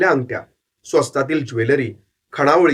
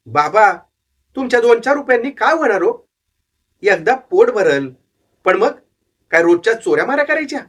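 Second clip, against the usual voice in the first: put-on young runaway boy, higher voice, earnest; boy's voice; 5 semitones higher than usual. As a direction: plead your case to the old man. Boy answers the old fortune-teller.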